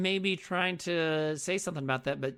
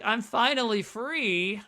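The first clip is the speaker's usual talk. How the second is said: slow relieved sigh; 2 semitones higher, 4 dB louder, slower than usual. Retold or imitated. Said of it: "Isabel's like".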